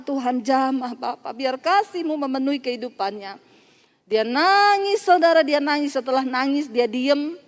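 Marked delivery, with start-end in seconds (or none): 0.0-3.5 retold prayer. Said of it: "Saya berdoa".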